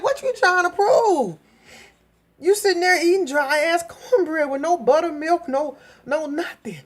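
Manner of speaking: high, laughing teasing question; laughing mock taunt. Grown folks mocking the cornbread eater, high laughing. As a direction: tease her through a laugh. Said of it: "It's like".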